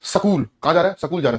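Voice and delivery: Haryana-style सकूल, vowel slipped between s and k; Haryanvi pronunciation. Retold or imitated. Teacher imitates Haryana people chatting about school, Haryanvi pronunciation. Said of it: "वहां पर कैसे pronounce होता है".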